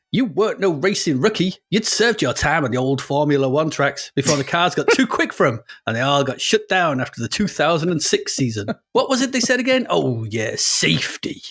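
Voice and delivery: hammed-up American racer's narration, somewhere in America; American accent. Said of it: "in my best accent to boot".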